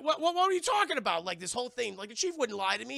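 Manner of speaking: high, loud stammering disbelief; mock incredulous protest. Man told that the chief lies, mock incredulous. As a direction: sputter it, starting high and loud.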